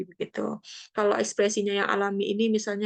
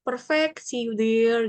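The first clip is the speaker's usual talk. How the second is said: balasan ceria; slower than usual. Acted. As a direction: act out an upbeat English sign-off. Meniru balasan chat berbahasa Inggris. (balasan riang bernada tinggi)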